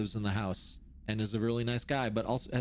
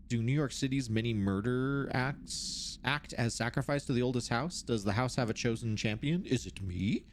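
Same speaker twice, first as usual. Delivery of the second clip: measured, formal reading voice; document read-aloud. Acted. Researcher reads out notes on the oldest house, formal read-aloud.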